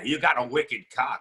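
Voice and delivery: put-on a light Boston accent on "You got a wicked cock"; Boston chick accent. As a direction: quote her in a hint of Boston. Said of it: "like a Boston chick".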